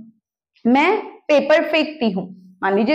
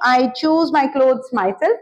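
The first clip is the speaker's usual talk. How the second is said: slow model sentence; much slower than usual. Shown as a demonstration. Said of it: "teacher modelling sentence".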